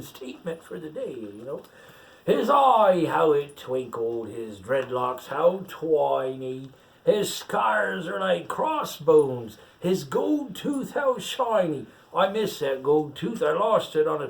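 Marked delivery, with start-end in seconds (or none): 2.3-11.9 slow, savoured story reading; slow admiring reading. Acted. Pirate reading his own portrait to the child, slowly relishing it. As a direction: linger on each feature like a proud boast.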